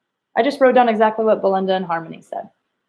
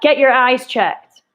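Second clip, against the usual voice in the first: slow, emphatic, fed-up line; a teacher acting an upset fan; emotional exclamation; 4 semitones higher, 4 dB louder, slower than usual. Shown as a demonstration. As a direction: yell it at the TV. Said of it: "was emotion in that".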